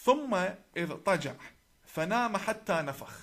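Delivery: reciting a hadith in Arabic; Arabic recitation. Shown as a demonstration. Speaker quoting scripture to his viewers, Arabic recitation. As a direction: recite the Arabic text firmly, phrase by phrase. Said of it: "I will recite in Arabic".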